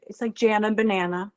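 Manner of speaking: "Jana" rhymed with "banana"; a playful rhyme showing how "Jana" sounds; rhyming pronunciation. Shown as a demonstration. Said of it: "for my whole life, I've, I've said".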